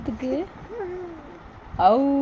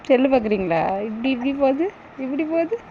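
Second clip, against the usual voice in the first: fast, louder, eager to show the phone; 4 dB louder, much faster than usual. Real, not acted. Showing baby a phone.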